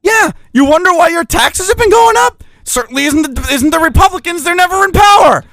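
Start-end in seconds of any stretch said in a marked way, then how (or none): 2.6-5.4 sarcastic shout. Real, not acted. Sarcastic jab at Republicans.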